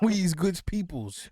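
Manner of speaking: put-on very slow, loud, high parody Southern accent; mock movie Southern accent. Mississippi guest repeating the parody for laughs, hammed-up Southern accent. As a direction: ham up a backwoods Southern drawl. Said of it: "How they literally talking on that show".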